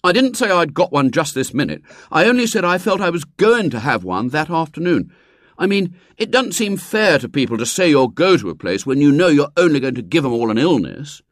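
mild whining plea; a boy wheedling his mother; pleading. A narrator's reading. William arguing.

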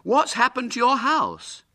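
high, loud breezy question; airy. A narrator's reading. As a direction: ask it airily, pitched high. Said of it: "said Douglas airily".

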